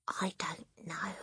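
quiet whispered reply. Acted. Matilda whispering back to Lavender. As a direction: breathe the answer back. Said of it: "Matilda whispered back".

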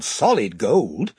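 slow, thoughtful weighing of the words; drawn-out musing on solid gold; pondering. Acted. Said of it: "Edmund reasons it out".

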